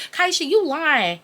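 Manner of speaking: high, drawn-out disbelieving mom; mock maternal disbelief. Mom refusing to believe her daughter, slow high-pitched disbelief. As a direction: imitate a mother who won't buy it.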